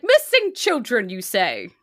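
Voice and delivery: feigned innocence. Acted. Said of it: "and is like".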